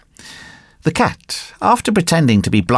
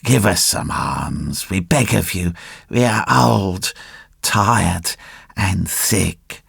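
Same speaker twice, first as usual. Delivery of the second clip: tearful; 2 semitones lower, 3 dB quieter, slower than usual. A narrator's reading. Old fox begging for alms, tearful and feeble. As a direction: plead feebly, dragging the words. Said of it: "in a tearful voice".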